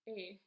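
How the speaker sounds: "a" as long AY; teacher's isolated long "a"; letter sound demo. Shown as a demonstration. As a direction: sound out "a" like the vowel in rain. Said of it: "A I makes the sound".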